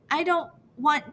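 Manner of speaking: lightly voiced small sister close to tears; child starting to cry. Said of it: "Malia starts crying".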